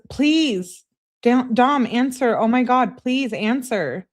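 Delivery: high, urgent acted begging; mock-desperate, drawn out at the end; pleading. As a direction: beg frantically for a reply. Acts out frantic texts.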